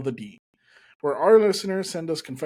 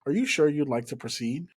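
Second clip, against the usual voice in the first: customer service voice; 4 dB louder than usual. Retold or imitated. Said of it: "she hit me with that customer service voice like".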